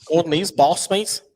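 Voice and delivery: a hint of Liverpool; Scouse accent. Shown as a demonstration. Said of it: "Can you say that in a Scouse accent?".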